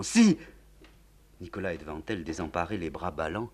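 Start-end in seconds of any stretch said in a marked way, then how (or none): 0.0-0.4 sharp high shout; wild refusal; crying out. Acted. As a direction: fling the word at him. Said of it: "en criant".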